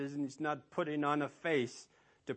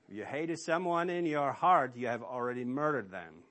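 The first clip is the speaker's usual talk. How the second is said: Jesus quoted; 5 dB louder than usual. Acted. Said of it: "Jesus said".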